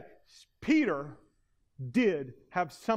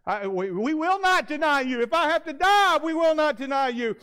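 high, loud chorus of vows; the disciples pledging loyalty, high and loud; disciples vowing; 10 semitones higher, 6 dB louder than usual. Acted. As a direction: shout the pledge together.

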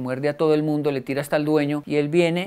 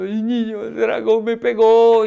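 put-on higher, louder, slow whiny child crying; 7 semitones higher, 9 dB louder, slower than usual. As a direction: whimper it out like a hurt kid. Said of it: "llegó llorando". (niño llorando, agudo y lento)

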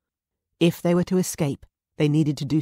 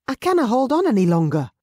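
desperate plea; 8 semitones higher, 7 dB louder than usual. Acted. Desperate pregnant woman pleading.

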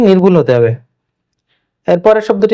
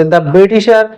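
slow dictation; much slower than usual. Shown as a demonstration. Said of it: "এখানে একটা বাক্য দেয়া আছে".

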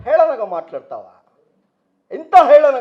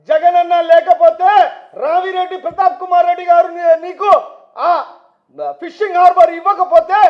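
raised, high-pitched political tirade; heated rebuke; 4 semitones higher, 4 dB louder than usual. Real, not acted. Politician reminds rival who made him, heated rebuke. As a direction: berate a rival at rally volume.

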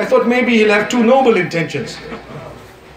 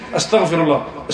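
soft, softer Astaghfirullah, each sound placed with care; said nicely, with concentration; 5 semitones lower, 4 dB quieter than usual. Shown as a demonstration. Preacher showing the congregation how to say it, softly and with concentration. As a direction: say Astaghfirullah gently, fully focused. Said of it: "Say it with concentration".

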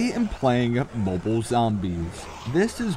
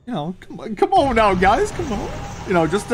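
much higher, squeaky come on; mock pleading; 8 semitones higher than usual. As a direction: whine come on, guys in a cartoonish high voice.

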